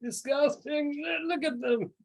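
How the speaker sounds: sneering at the peasants; disdainful noble. Acted. GM voicing a disdainful NPC.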